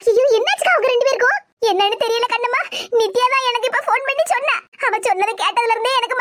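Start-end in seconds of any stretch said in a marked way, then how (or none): 0.1-1.4 louder, shocked cry of worry; alarmed ayyo. Acted. Sister hearing that her relatives are in hospital, shocked and louder. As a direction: gasp it out in sudden alarm.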